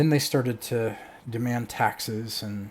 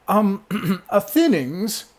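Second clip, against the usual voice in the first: high, loud, slow call; booming summons; 10 semitones higher, 10 dB louder, slower than usual. Acted. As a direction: clear the throat, then boom out the name. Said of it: "her voice booms out".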